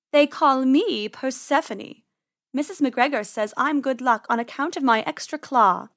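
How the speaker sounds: haughty feline boast; proud cat. Acted. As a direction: introduce yourself grandly, drawing out the name. Proud cat introduces herself.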